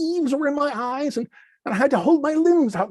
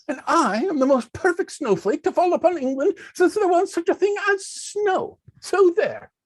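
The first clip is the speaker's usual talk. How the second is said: boastful; 6 semitones higher than usual. Acted. Snowflake bragging contest.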